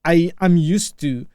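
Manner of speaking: practised American English accent; non-native speaker's careful American accent. Real, not acted. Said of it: "I go with American accent".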